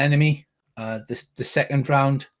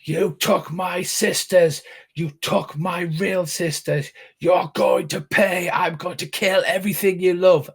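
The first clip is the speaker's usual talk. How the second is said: screamed threat; 5 semitones higher than usual. Acted. Enemy screams at the party before Earl fires, vengeful cry. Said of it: "she screams out".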